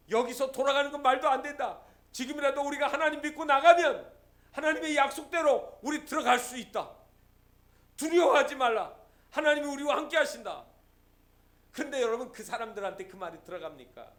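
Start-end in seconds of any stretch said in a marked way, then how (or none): 0.1-10.6 louder, higher rallying cry; rally a frightened crowd with conviction; bold proclamation. Acted. Caleb urging the panicked people forward, loud and bold. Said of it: "그때 갈렙이 이렇게 얘기합니다".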